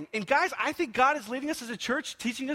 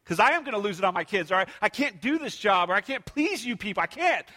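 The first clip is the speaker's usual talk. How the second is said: prayer of faith. Retold or imitated. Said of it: "But my prayers would say".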